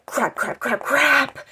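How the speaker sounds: rising panicked repeats; building panic. Retold or imitated. Panic as iPod dies.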